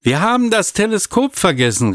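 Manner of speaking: put-on high, urgent child's cry; calling out in alarm. A narrator's reading. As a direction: blurt it out in a sudden panic. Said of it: "rief Katharina dazwischen".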